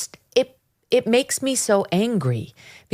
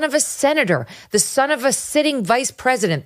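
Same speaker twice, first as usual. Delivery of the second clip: angry; 6 semitones higher than usual. Real, not acted. Angry rant about Hunter Biden.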